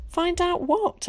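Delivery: high, slow, exasperated demand. A narrator's reading. Ginny presses Zack in exasperation, high and slow. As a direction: drag it out in exasperation. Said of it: "exclaimed Ginny in exasperation".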